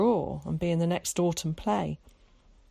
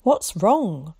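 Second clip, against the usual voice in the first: worried; 8 dB louder than usual. Acted. Zack alarmed.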